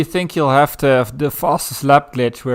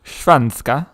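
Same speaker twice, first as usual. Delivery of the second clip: Swedish accent. Shown as a demonstration. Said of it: "doing a correct Swedish accent".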